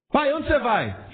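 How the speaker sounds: small child asking dad where he's going, lightly voiced. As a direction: ask like an eager small child.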